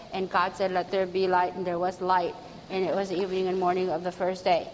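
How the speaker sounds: low, flat, droning Bible reading; monotone reading. Retold or imitated. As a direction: read it like a nervous old man in monotone. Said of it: "read the whole entire thing in a monotone voice".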